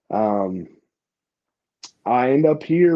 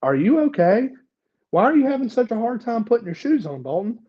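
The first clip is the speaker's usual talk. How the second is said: worried mom; 9 semitones higher than usual. Retold or imitated. Mom asks about his shoes.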